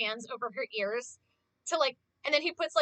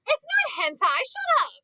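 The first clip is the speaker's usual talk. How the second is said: much higher, louder protest; defensive outburst; 13 semitones higher, 7 dB louder than usual. Real, not acted. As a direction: snap back at chat, half joking. Retorting to chat.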